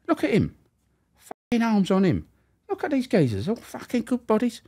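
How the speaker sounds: high mocking wife voice; a nagging wife, pitched high; imitating the wife. Wife voiced in a retold story.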